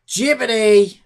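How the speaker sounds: exasperated call. Real, not acted. Calling out the AI.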